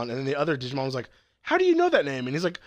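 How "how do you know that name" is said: much higher character voice; high mock questioning; imitated cartoon character's question. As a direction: voice a puzzled cartoon character, pitched way up. Acting out a character's challenge.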